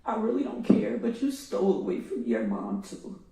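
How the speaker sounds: loud, confronting; angry. Real, not acted. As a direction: hurl it at the defendant. Confronting the killer in court.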